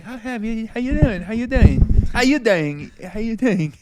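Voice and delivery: imitating an easygoing British uncle; mellow British accent. Showing how the British uncle greets people, mellow British accent. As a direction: repeat the greeting in a loose British lilt. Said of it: "it's like mellow. He's a mellow guy".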